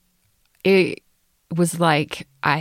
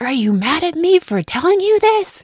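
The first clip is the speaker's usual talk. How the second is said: much higher, small worried voice; anxious teen voice; 12 semitones higher, 3 dB louder than usual. Retold or imitated. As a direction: ask it like a nervous kid. Daughter asks anxiously.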